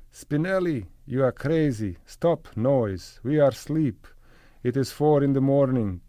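loud, high shouting in broken English; Tata shouting. A narrator's reading. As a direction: shout angrily at the neighbor's door. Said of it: "shouting in his stunted English".

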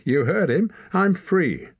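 high, loud protest; defiant insistence. A narrator's reading. Boy insists the leader freed him, defiant. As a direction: insist on it, pitch climbing.

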